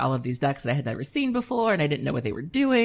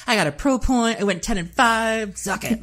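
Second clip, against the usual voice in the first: mock cocky; 7 semitones higher than usual. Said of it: "I just had this really weird attitude".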